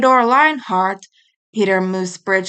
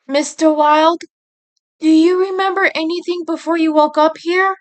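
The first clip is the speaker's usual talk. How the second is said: anxious nurse; 7 semitones higher, 3 dB louder than usual. A narrator's reading. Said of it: "suddenly becoming anxious".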